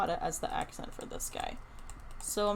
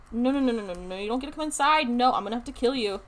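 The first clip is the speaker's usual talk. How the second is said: scolding sheep; 5 dB louder, faster than usual. Pretend.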